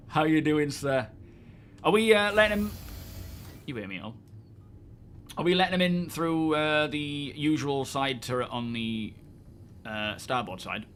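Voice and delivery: muffled behind a helmet visor; inside a helmet. Real, not acted. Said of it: "Let me get my helmet back on again".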